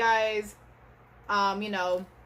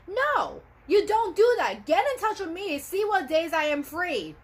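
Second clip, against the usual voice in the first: raised, insistent scolding of the office; firmly telling them off, voice up high; real frustrated scolding; 3 semitones higher than usual. Real, not acted. Vlogger scolding the doctor's office, upset and raised. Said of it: "I'm just fired up".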